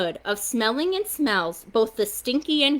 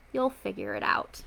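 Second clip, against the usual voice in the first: softer, lower tender murmur; soft whisper; 4 semitones lower, 8 dB quieter than usual. A narrator's reading. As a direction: parents whispering to a sleeping child. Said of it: "They kissed her and whispered".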